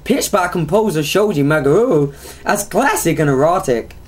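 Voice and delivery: lightly hammed-up Texan accent; hillbilly accent. Host showing co-host how to read it, mock hillbilly accent. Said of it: "let's do a South American accent".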